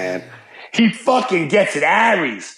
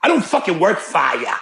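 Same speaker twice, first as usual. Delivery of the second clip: put-on Boston accent; 4 semitones higher than usual. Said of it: "every time you do an accent".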